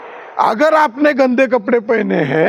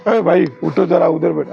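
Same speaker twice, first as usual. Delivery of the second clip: polite request; 6 semitones lower than usual. Retold or imitated. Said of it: "प्यार से बोलेगा".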